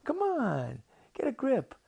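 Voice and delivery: high, loud, pushy creature voice; cartoon octopus losing patience; exasperated octopus. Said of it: "And the octopus, he says".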